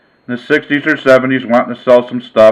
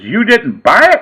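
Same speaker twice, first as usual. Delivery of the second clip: dismayed disbelief; 8 semitones higher than usual. Retold or imitated. Dealer realizing ball is fake.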